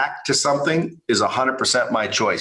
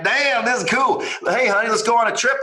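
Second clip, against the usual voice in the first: mock excited; 7 semitones higher than usual. Imagined million dollar winner.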